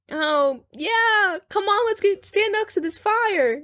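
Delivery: put-on high girlish luring voice; hammed-up girl, slowing at the end. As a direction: coax him over in a high pretend girl's voice. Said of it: "But she's all like".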